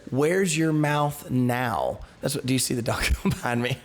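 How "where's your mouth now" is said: taunt. Retold or imitated. Zebul taunting Gaal.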